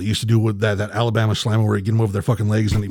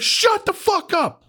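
very high, slow mocking voice; hammed-up retold retort; mock snap; slower than usual. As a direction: sneer it out high. Snapping at the girlfriend.

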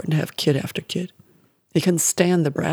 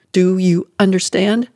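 louder, clipped question; mother squeezing her son's shoulders, louder and hard; harsh demand; 2 semitones higher, 5 dB louder than usual. Acted. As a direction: press him for an answer, threatening. Mother gripping the boy's shoulders.

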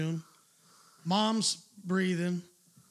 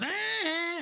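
mock kid defiance; 11 semitones higher, 3 dB louder than usual. Kid answers the lifeguard.

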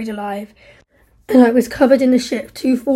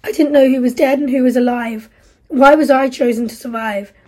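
louder, bitter reproach; guilt and rebuke; 5 dB louder than usual. Acted. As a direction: turn the guilt on her. Steve confesses guilt, then rebukes Isla.

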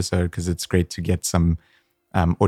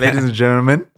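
hype host announcement; 6 semitones higher, 4 dB louder than usual. Acted. Host opening the show, second take.

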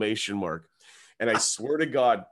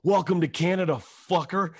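cocky buddy greeting; 8 semitones higher, 5 dB louder than usual. Retold or imitated. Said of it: "he goes".

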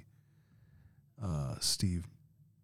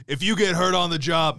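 Be a Man guy; 4 semitones higher, 3 dB louder than usual. Retold or imitated. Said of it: "the Be a Man guy".

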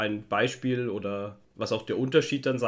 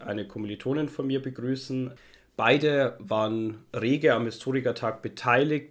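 slightly hoarse, sick voice; speaking with a sore throat; hoarse from a cold. Real, not acted. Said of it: "entschuldigt meine Stimme ein bisschen".

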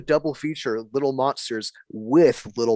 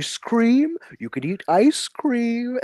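high-pitched mock coaxing; imitating coaxing dad; 9 semitones higher, slower than usual. Dad trying to please his daughter with a treat, mock high-pitched coaxing. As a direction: offer it high and drawn out, like a pleading dad. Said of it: "He goes".

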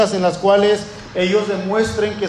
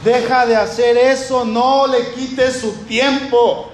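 scolding crowd. Retold or imitated. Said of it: "lo callan".

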